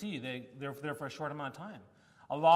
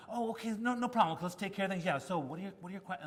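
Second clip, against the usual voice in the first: higher, bright friendly reassurance; nice and engaging; 4 semitones higher than usual. Retold or imitated. Surgeon reassuring the annoyed patient, higher friendly voice. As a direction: play the charming surgeon putting him at ease. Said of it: "She was so nice and engaging".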